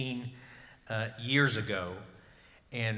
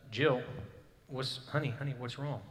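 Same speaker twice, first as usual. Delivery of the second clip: concerned husband. Retold or imitated. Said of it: "wake up and be like".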